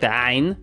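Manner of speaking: "ain" from deep in the throat; Arabic ain. Shown as a demonstration. Teacher trying the Arabic ain sound. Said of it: "Like that sound".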